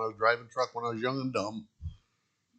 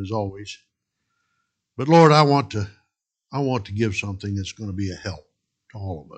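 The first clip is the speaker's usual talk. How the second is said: earnest spoken prayer to God; 3 semitones lower than usual. Real, not acted. Pastor praying before his sermon, earnest prayer. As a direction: pray it humbly, asking for help.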